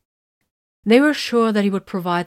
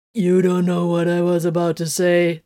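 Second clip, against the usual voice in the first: accusing. Acted. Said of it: "the voice said accusingly".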